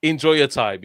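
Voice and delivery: high, loud, laughing boastful swagger; cocky star player. Retold or imitated. Arrogant Madrid player greeting England, mock swagger. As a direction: lord it over everyone, hammed-up. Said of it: "You, you say".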